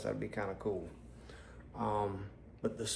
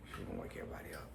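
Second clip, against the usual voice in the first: whispering; 12 semitones lower, 10 dB quieter, much faster than usual. Real, not acted. Worried about noise.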